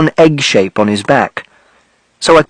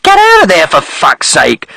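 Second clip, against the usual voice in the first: angry shout; 3 semitones higher than usual. Acted. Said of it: "someone said".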